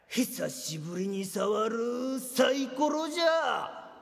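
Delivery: slow, put-on old-man line; pretend old man. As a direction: drag it out like a veteran gambler. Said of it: "何が久しぶりに触るサイコロじゃ". (年寄りを装って、ゆっくりしみじみ言う)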